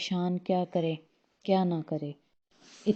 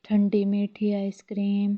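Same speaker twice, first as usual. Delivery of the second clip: calling out wares like an ice-cream seller; sing-song hawker's cry down the lane; vendor's street call; 3 semitones higher, 4 dB louder than usual. Acted. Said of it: "अब आवाज़ लगा".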